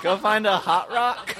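words squeezed out through laughter, high; laughing punchline. Real, not acted. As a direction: repeat the line while cracking up. Retelling punchline while laughing.

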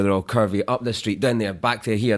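zigzaggy Cockney demo; lightly imitated London Cockney, darting about; Cockney accent. Shown as a demonstration. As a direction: let the Cockney tune zigzag like curvy streets. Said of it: "That's the Cockney accent".

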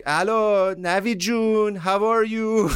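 high, drawn-out sing-song phone greeting; general on the phone. Retold or imitated. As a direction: greet an old friend with stretched, high-pitched words. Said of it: "picks it up and he's like".

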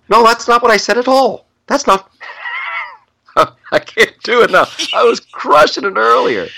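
very high, strained impersonation voice; Jordan Peterson impression. Shown as a demonstration. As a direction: crank the voice up high to mimic him. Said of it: "try to do my Jordan Peterson impression".

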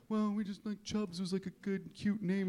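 high, soft, hesitant excuse; sheepish shelter staff. Retold or imitated.

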